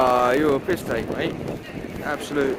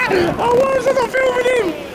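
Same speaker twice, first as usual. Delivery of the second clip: high, laughing disbelief, words breaking through giggles; slower than usual. Real, not acted. Vlogger laughing at himself for missing the shot. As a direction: laugh it out in frustration. Laughing after a missed moment.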